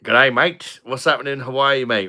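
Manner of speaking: a light mock Australian accent on the greeting. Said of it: "I'm not Australian, by the way".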